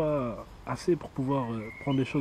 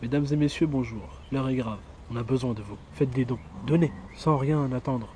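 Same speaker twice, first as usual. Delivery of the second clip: solemn appeal; 3 semitones lower than usual. Pretend. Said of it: "il faut aussi que t'appuies sur les dons".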